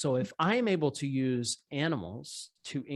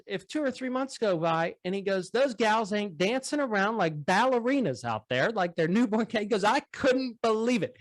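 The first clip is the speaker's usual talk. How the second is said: high folksy farmer voice; dairy farmer; 9 semitones higher than usual. Retold or imitated. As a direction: lift the voice way up for the farmer.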